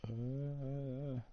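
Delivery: strained, breath held in; holding breath. Real, not acted. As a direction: talk while holding breath. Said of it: "I'm holding my breath".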